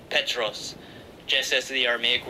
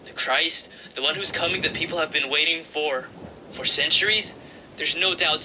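lightly voiced excited younger brother, higher; eager Andrew; 3 semitones higher than usual. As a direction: urge your brother, breathless with news. Andrew's voice in the story.

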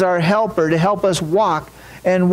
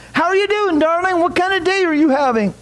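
much higher, kind motherly phone voice; cheerful, kind mother; 9 semitones higher than usual. A narrator's reading. Mother calling her daughter, lightly voiced, cheerful and kind. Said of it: "the voice on the other side of the phone was very cheerful and kind".

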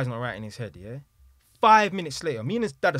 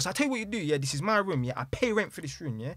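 mildly heated, pitched-up retort; retold snapping; 5 semitones higher, 3 dB louder than usual. Son laying down rules for his room, retold indignant rant. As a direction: imitate an indignant argument, voice raised a little. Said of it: "My man snapped".

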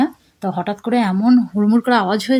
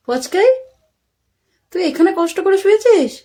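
much higher, rising call to the pet; high pet-talk; 10 semitones higher, 3 dB louder than usual. Real, not acted. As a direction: sing the name up, then coo. Calling the pet by name.

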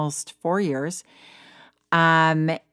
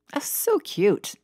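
whisper; 7 semitones higher, slower than usual. Real, not acted. Charmed aside on British word.

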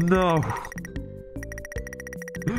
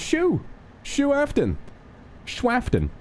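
high silly voice; 10 semitones higher, slower than usual. Pretend. Joke name, high voice.

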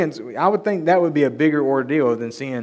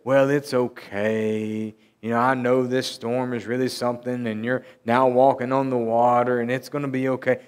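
mock reassurance. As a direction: imitate someone gently soothing. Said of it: "He didn't say".

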